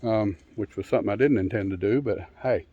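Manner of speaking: talking without teeth in; mushy mealy-mouthed speech; no dentures in. Real, not acted. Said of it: "I sound a little mealy-mouthed".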